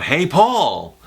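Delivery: American Psycho quote. Retold or imitated. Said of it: "American Psycho".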